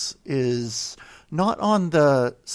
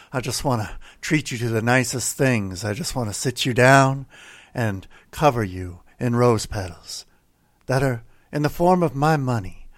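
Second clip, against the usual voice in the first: mock sultry pledge plea; 3 semitones lower than usual. Mock devotional pledge pitch.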